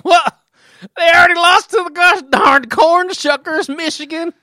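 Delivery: scornful shout. Pretend. Scornful fan outburst.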